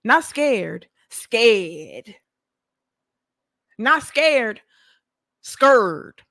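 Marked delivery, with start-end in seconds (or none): 1.1-2.2 Scared with a small rising quaver; mock scared. Shown as a demonstration. Contrasting herself not scared with scared, as a mock whimper. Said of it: "Now she's scared". 5.4-6.2 Scared with a mock fearful whine. Shown as a demonstration. Contrasting not scared with scared again, mock whine. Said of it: "Now she's scared".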